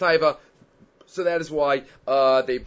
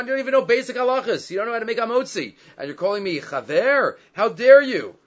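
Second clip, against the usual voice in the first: indignant rebuke; 5 semitones higher, 3 dB louder than usual. Retold or imitated. Menashe rebukes Rav Ashi in dream.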